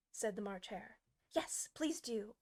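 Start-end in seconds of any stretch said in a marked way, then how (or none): 1.3-2.3 slow gentle plea; pleading. Acted. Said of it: "pleaded Alice".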